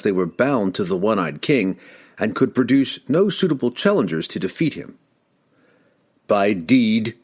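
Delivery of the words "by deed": even and calm. Acted. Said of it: "he said evenly".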